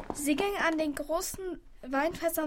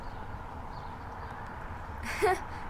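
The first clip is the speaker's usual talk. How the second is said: laugh; 4 semitones higher, 7 dB quieter than usual. Acted. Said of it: "Dann lachte er".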